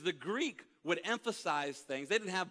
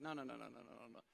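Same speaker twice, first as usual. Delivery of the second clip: soft hushing no; 6 semitones lower, 12 dB quieter, much faster than usual. Retold or imitated. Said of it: "I said".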